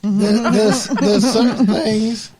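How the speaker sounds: loud, high, slow laughing stammer. Real, not acted. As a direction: struggle to get words out through laughter. Trying to talk while laughing.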